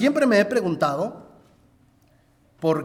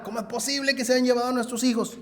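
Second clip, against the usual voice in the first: lamenting; 6 semitones higher, faster than usual. Retold or imitated. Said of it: "Se ponen a llorar".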